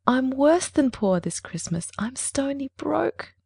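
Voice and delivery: slow, high-pitched doleful lament; dolefully dragging out each word. A narrator's reading. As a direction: draw out the woe, pitched well up. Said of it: "said Clorinda dolefully".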